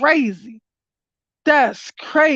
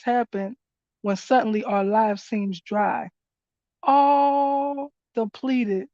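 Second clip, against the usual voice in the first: card reading voice; 2 semitones lower than usual. Acted. Reader shares the card's message with viewers, in a calm reading voice. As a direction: read the guidance aloud like scripture.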